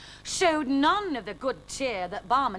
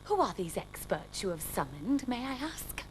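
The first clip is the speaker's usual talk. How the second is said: soft, gentle question ending in a whisper; kind tones; 4 dB quieter than usual. Acted. Julian gently asking the barman, kind soft tones. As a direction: ask kindly, almost hushed. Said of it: "said to the man in kind tones".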